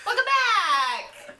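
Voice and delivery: laughing. Real, not acted. Show returns from break.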